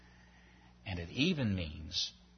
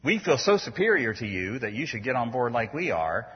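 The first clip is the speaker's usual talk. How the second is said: superior; 7 dB louder than usual. Shown as a demonstration. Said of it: "He doesn't say".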